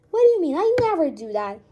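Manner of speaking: high, loud, shocked question; indignant disbelief. Acted. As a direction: shoot it back in shock. Denies sleepwalking, indignant.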